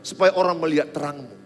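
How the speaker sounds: high, loud, driving sermon voice; preacher pressing the students to stay honest, full force preaching; fiery preaching. Acted. High loud fervent sermon.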